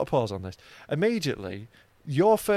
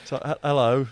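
deep gay man voice; 2 semitones lower than usual. Pretend. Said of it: "I'm gonna be a gay man".

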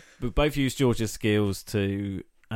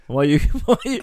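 trying not to laugh; 5 semitones higher, 6 dB louder, much faster than usual. Real, not acted. Friend fights laughter.

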